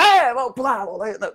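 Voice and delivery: mock pep-rally shout; mock hyped-up opener. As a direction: parody the over-pumped speaker jumping around. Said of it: "Isso não quer dizer que você tem que chegar".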